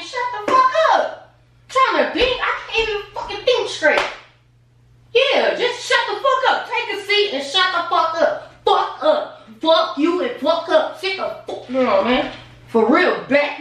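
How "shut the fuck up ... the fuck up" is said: exasperated snap. Acted. Couple arguing over lost channel.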